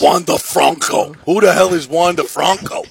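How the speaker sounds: lightly put-on New York accent, mocking the name. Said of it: "the way you said Juan DeFranco in your New York accent".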